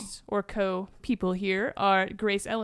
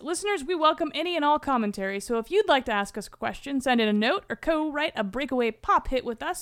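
podcast sign-off; 2 semitones higher than usual. Real, not acted. Reads the show's sign-off.

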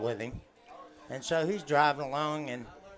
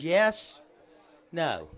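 dim blonde; 6 semitones higher, 4 dB louder, much slower than usual. Retold or imitated. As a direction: alternate yes and no like a flashing light. Blonde answers blinker on off.

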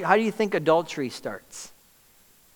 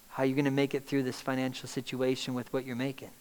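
soft, quick needling voice; 7 dB quieter, faster than usual. Acted. Enemy's suggestion.

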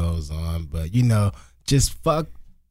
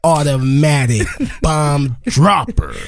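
hype man intro; slower than usual. Pretend. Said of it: "hand claps or something in the back".

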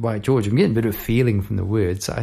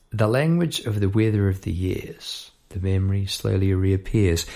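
measured lyric reading; spoken-word poetry. Acted. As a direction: recite the line as poetry. Reads own lyrics as poetry.

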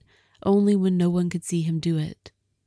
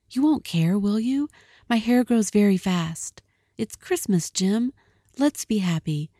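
pleading Della; 3 semitones higher than usual. Acted. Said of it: "she cried".

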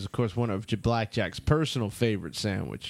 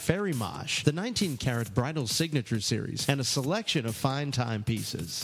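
ad read. Acted. Scripted luxury ad read.

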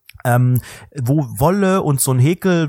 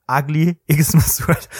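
ugly Xmas Sweater spelled out slowly with a laugh; slow it down for the non-German listeners, chuckling; deliberate slow repeat with a laugh in it; slower than usual. Shown as a demonstration. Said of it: "Für Leute, die kein Deutsch".

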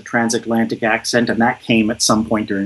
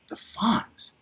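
breathy disbelieving whisper, pitched up; a whispered, doubtful echo; incredulous whisper; 10 semitones higher, 11 dB quieter than usual. Retold or imitated. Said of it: "And it was like".

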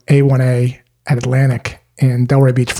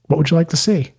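calm, slightly softer question; 2 semitones higher, 3 dB quieter, faster than usual. Shown as a demonstration. Salesperson calmly asking the prospect what they want. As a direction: ask it calmly, leaving room to talk. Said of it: "Just like that in a calm voice".

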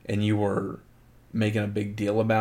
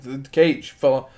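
a bit higher and louder, urgent; mock alarmed kids; 4 semitones higher, 5 dB louder than usual. Cousins alerting the parents, mildly alarmed. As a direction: report it like worried kids. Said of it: "they're like".

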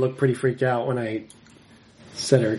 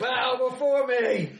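booming demon lord; 10 semitones higher than usual. Pretend. Demon lord repeats command.

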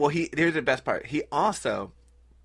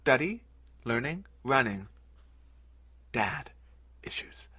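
mock slam poet. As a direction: parody slam poetry, dramatic pauses. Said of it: "making fun of it".

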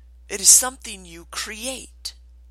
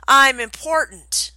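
much louder declaration; twice as loud; 5 semitones higher, 10 dB louder than usual. Shown as a demonstration. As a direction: proclaim it loud. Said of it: "Say it again twice as loud".

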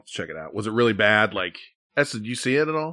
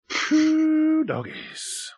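long, high exhaled whoop; high, slow reaction to something strong; drawn-out exclamation; much slower than usual. Real, not acted.

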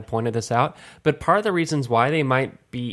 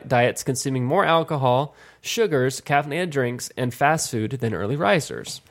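measured, evenly paced news read; article read-aloud; 2 semitones higher than usual. Real, not acted. Host reads a health study to the others, measured read-aloud. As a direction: read it out like a short health report.

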